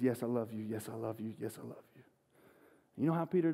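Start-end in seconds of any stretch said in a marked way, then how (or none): 0.0-0.6 soft, humble yes; quiet answer. Retold or imitated. Peter answers Jesus at the second campfire, softly. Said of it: "he says". 0.6-2.0 soft, then softer until almost gone; fading to near silence. Retold or imitated. Peter answers Jesus at the campfire, fading away. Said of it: "he says".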